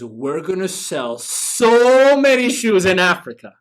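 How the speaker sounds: can barely contain himself; excited. Retold or imitated. Eager salesman tells the CEO, bursting with excitement. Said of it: "the other one's excited".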